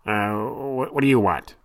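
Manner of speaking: a lightly voiced wary thin man; startled sailor. A narrator's reading. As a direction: caught off guard, a touch gruff.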